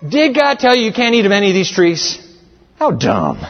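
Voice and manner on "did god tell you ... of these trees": high, casual come-here call of a con man; higher mock tempter calling the girl over; ludicrous serpent. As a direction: sell it like a smooth street hustler. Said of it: "it's ludicrous".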